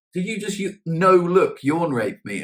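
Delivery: high, loud shocked question; can't believe what just happened; shocked disbelief. Retold or imitated. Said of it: "she was like".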